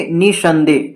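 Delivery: निसंदेह with a push on नि; stress on the first syllable of निसंदेह. Shown as a demonstration. Teacher showing where force is needed, नि stressed in निसंदेह. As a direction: put extra force on नि in निसंदेह. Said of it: "नी पर ज़्यादा जोर लगाना पड़ा".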